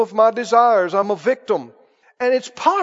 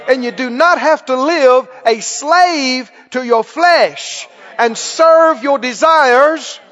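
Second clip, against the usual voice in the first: preaching at full force; 2 semitones higher, 3 dB louder than usual. Acted. Preacher rousing the congregation, louder and emphatic. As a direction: drive each line home to the church.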